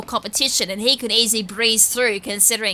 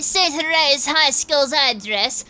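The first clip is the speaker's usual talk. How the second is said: nerdy voice. Acted. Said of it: "kind of give a nerdish voice".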